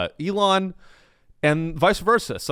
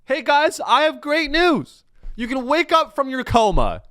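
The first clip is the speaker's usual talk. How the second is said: mock good news; 10 semitones higher, 5 dB louder than usual. Sarcastic good-news announcement.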